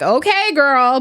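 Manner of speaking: put-on high, dismissive okay girl; mock okay girl. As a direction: brush her off with a high, knowing okay girl. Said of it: "I just laughed like".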